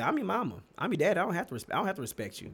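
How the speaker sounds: high, mocking parent voice; mock the bossy parent; imitating a parent. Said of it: "They'll say".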